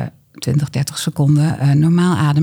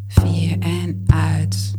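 whisper; much slower than usual. Acted. Counting out the exhale.

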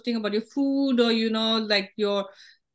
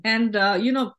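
squeaky from a sore throat. Real, not acted. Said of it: "I have a sore throat, so I'm sounding a little, like, squeaky".

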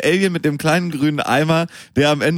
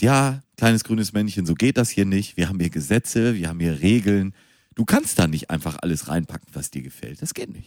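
stern German official; 5 semitones lower, 3 dB quieter than usual. Acted. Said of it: "ein Deutscher an und sagt".

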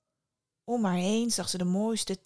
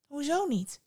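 puzzled surprise; 6 semitones higher than usual. A narrator's reading. Psyche questions why she may not see him, surprised. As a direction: pitch lifts high on the question. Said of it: "vroeg Psyche verwonderd".

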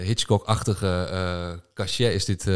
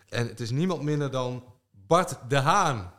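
winner announcement; 5 semitones higher than usual. Acted. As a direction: build up, then reveal the name.

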